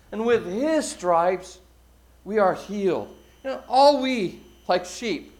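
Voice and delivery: measured, emphatic preacher's reading; scripture recitation. Acted. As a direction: recite it solemnly, leaning on key words. Recites Isaiah to the congregation.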